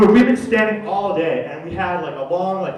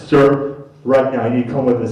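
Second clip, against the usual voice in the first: low, loud firm order; mock security guard; stern guard; 6 semitones lower, 6 dB louder than usual. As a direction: command him to come along.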